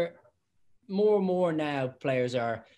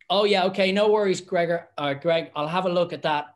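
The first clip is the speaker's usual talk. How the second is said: louder, bright brush-off; placating referee; 3 semitones higher, 5 dB louder than usual. Retold or imitated. Referee soothing the captain, loud breezy reassurance. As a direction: humour the captain to keep him happy. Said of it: "I was like".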